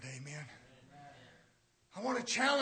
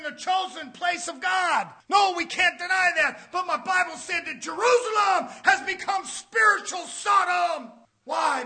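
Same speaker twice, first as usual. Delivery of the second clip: raised, emphatic pulpit voice; fired-up sermon delivery; forceful preaching; 8 semitones higher, 10 dB louder than usual. Real, not acted. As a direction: drive the point home to the congregation.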